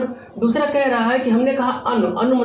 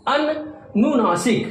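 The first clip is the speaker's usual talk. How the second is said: slow; 2 semitones higher, much slower than usual. Shown as a demonstration. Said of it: "और दूसरा हम देखते हैं".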